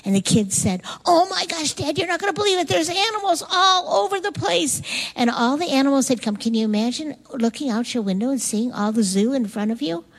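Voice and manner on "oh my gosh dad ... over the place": put-on high-pitched, over-the-top amazed child; excited kid. Kids telling Dad about the animals outside, wildly excited. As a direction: squeal it like a kid bursting with news. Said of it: "I bet the kids went crazy".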